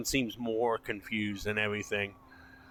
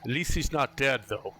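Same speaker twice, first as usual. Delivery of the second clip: Ismar; 3 dB louder than usual. Acted. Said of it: "Ismar comes up to you and goes".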